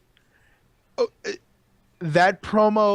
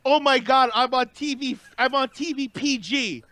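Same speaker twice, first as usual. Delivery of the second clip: higher-pitched mock exasperation; catching herself; 7 semitones higher than usual. Imitating her realizing she's on TV, higher exasperated self-censoring. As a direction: imitate someone suddenly remembering they must not swear. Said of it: "you can see where she edited herself".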